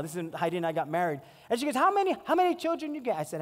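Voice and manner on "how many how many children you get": quick, raised pidgin auntie question; vendor lady. Retold or imitated. Vendor lady quizzing him about his kids, quick and high. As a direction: rattle it off high like a curious auntie.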